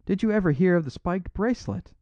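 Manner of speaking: outlaw crying out. A narrator's reading. Flambeau demands how the priest knows the bracelet, loud and high. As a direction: demand it, almost shouting. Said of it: "cried Flambeau".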